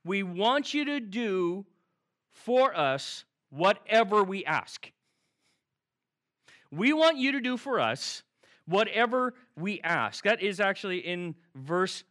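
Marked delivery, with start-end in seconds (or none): 0.0-4.9 slow, deliberate reading of the disciples' request; slow quote. Retold or imitated. Pastor sets up the disciples' request, slow and deliberate. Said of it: "you ready?". 6.7-10.2 emphatic quote. Retold or imitated. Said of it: "you ready?".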